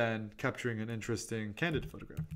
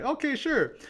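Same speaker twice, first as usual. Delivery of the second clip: imitating the woman; 13 semitones higher, 3 dB louder, slower than usual. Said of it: "And she's like".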